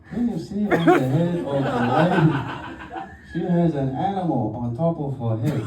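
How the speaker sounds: lightly put-on Peruvian guide voice; a touch of Spanish accent on the guide; mock Peruvian accent. Guide quizzing the tourists, in a light mock Peruvian accent. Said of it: "I'm working on the accent".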